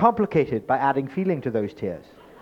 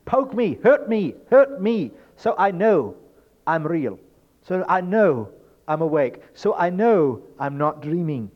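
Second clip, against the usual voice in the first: pleading; 6 semitones higher, 5 dB louder than usual. Pretend. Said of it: "Uh-uh, it's".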